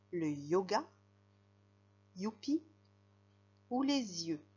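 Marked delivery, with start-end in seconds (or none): 3.8-4.4 "les yeux" linked with a z sound; liaison. Shown as a demonstration. Teacher showing pupils the link between words, liaison in "les yeux". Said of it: "j'ai dit les yeux parce que je fais la liaison".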